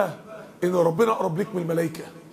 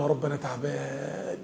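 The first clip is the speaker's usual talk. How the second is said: pleading prayer; 4 semitones lower than usual. Acted. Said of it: "وتبدأ تطلب منه وتقول له". (مناجاة حزينة هادئة)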